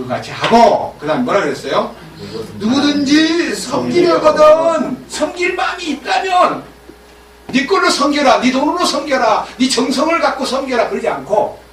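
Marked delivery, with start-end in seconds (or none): 2.6-10.9 preaching shout. Acted. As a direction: thunder the command out. Preacher quotes scripture forcefully.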